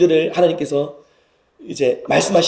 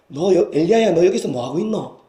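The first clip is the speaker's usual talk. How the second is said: lightly affectionate Gyeongsang lilt; warm Gyeongsang dialect. Acted. God warmly asks Elijah, in Gyeongsang dialect. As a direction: ask kindly in Gyeongsang dialect. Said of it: "따뜻한 음성으로".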